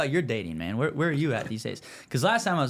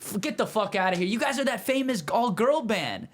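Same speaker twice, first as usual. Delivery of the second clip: mock disbelief; 7 semitones higher than usual. Buddy insisting they're famous.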